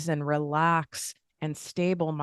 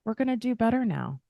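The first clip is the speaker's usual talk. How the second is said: "We're gonna do better now" lifted higher and brightened by a smile; 7 semitones higher, faster than usual. Shown as a demonstration. To yourself in the mirror, say "We're gonna do better now" smiling. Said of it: "And you can smile".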